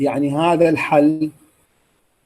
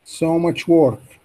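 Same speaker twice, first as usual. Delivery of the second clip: slow repeat; slower than usual. Shown as a demonstration. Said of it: "copy the stress and intonation".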